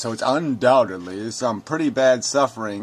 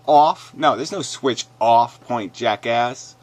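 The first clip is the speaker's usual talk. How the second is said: incredulous shout; 6 dB louder, slower than usual. Real, not acted. Reacting to a comment, a loud incredulous shout. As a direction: bark the word back in disbelief.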